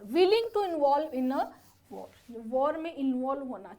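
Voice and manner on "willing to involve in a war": very slow, each word apart; slow dictation. Shown as a demonstration. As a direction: dictate it slowly for notes. Teacher dictating a meaning.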